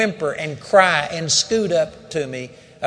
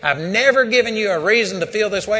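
loud, raised hurt rebuke; angry scolding; 6 semitones higher, 3 dB louder than usual. Retold or imitated. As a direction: shout it, wounded and fed up. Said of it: "reading the riot act of this dog".

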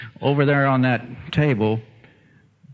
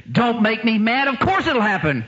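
confident retort; 8 semitones higher than usual. Retold or imitated. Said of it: "That's what he said".

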